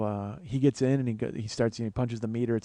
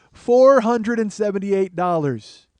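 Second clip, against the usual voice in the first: slow, louder outraged repeat of "Four hundred and seventy-eight dollars"; outraged disbelief; 4 semitones higher, 9 dB louder, slower than usual. Retold or imitated. Comic repeating the rental clerk's price, slow and stunned.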